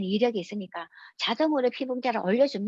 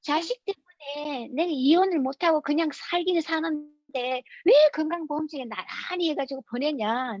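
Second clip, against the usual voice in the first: higher-pitched, whining mock complaint with stretched words; retold angry outburst; 4 semitones higher than usual. Wife at insurance office, listed under hated husband, mock-outraged. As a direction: imitate an aggrieved wife protesting. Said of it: "난리가 난 거야".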